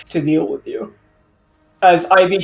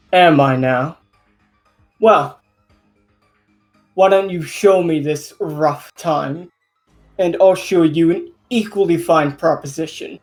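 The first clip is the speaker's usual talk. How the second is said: mustache twirling villain. Acted. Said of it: "smirk as he, uh, twirls his mustache".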